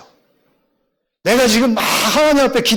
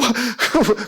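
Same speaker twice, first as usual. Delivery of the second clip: short mock sobs; imitated sobbing; 4 dB quieter than usual. Husband and wife crying together at dinner, imitated sobbing. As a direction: act out a quick sob. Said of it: "자기도 울더라고".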